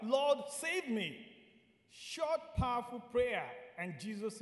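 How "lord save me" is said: mildly raised, drawn-out cry for help; retold plea, higher and slow. Preacher voicing drowning Peter's prayer, crying out mildly. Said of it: "he cried out".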